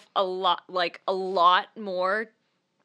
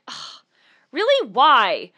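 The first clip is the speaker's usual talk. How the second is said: a touch of exasperated whine; mild mock road rage; 5 dB louder than usual. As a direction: complain at the driver who cut in. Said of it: "I'm like".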